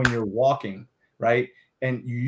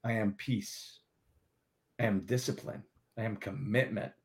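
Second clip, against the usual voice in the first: embodied affirmations. Shown as a demonstration. Coach demos chest-out I am statements, embodied. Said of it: "Embody the words as you speak them".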